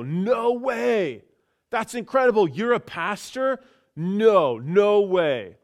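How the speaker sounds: high, loud imitation of astonished strangers; amazed disbelief. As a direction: act out their loud, delighted disbelief. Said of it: "the reaction that I got was so far from anything".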